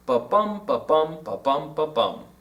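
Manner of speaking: "ba-bum" four times, each bum stressed, stepping downward; iambic beat. Shown as a demonstration. Teacher sounding the iambs in Frost, chanted "ba-bum" stressed on "bum". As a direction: tap out the beat, landing on every "bum". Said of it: "Can you hear the iambs there?".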